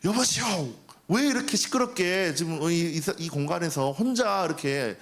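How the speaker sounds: mildly heated, indignant scolding; acted angry complaint. Seminarian confronts noisy neighbor over praise singing, acted annoyance. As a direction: act out an irritated protest. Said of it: "화를 냈다는 거예요".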